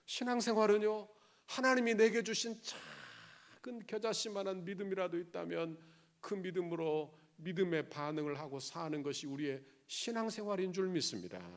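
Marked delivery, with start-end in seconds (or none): none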